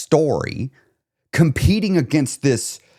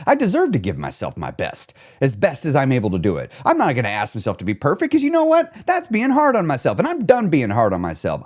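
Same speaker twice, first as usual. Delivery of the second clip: empowering self-talk. Shown as a demonstration. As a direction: build yourself up with growing conviction. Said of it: "tell yourself not a neutral story, but a powerful, empowering story".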